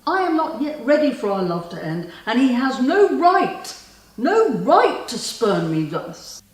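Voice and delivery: indignant protest. Acted. Spurned lover refusing to let their love end, indignant. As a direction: protest fiercely, leaning on each refusal.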